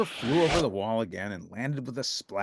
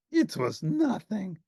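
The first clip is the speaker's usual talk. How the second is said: breathless gasp; 8 semitones higher, slower than usual. A narrator's reading. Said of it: "gasped Grover".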